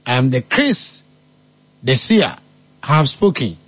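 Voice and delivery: mock prophet. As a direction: hand down the prophecy like an oracle. Self-styled prophet proclaims prediction.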